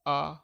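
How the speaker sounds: आ said through the nose as आँ; teacher showing a nasalized आ; nasal vowel demo. Shown as a demonstration. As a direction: hum आँ with nasal air. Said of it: "आ पे चंद्रबिंदी लगा दी".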